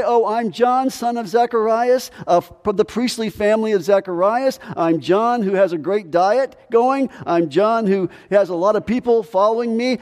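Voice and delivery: mock self-introduction. Preacher voicing what John does not say, mock boasting. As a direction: reel off credentials in a mock boast.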